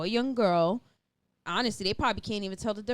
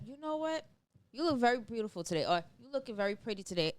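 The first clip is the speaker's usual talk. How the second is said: softer, fast gentle compliment; a touch of a respectful man, softer; polite compliment; 6 dB quieter, faster than usual. Retold or imitated. Respectful man complimenting a woman, softer and gentle. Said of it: "who are respectful, said".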